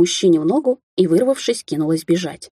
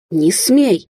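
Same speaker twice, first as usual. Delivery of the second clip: loud desperate cry; yelling; 2 semitones higher, 4 dB louder than usual. Acted. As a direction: scream to stop him. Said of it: "завопила Алисия".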